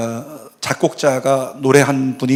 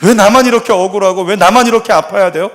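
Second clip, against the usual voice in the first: retold lament; 6 semitones higher, 5 dB louder than usual. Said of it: "그가 뭐라고 고백하냐면".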